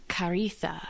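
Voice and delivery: breathy whisper of a name. Real, not acted. Musing alone, she whispers the name.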